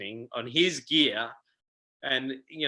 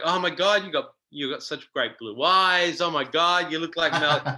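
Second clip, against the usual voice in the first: gushing admiration; 3 semitones higher, 3 dB louder than usual. Retold or imitated. Quoting casting women admiring him.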